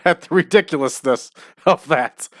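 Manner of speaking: amused, breaking into a laugh at the end; can't stop laughing. Real, not acted. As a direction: talk on the edge of laughter. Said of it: "I can't stop laughing".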